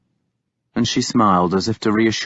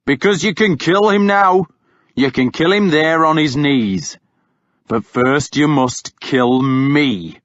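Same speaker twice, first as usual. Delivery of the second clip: furious challenge; 4 semitones higher than usual. Acted. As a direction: taunt them to fight you.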